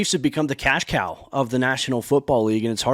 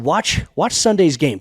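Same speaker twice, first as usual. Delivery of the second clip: quoting the coach's promise; 4 dB louder than usual. Retold or imitated. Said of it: "he said".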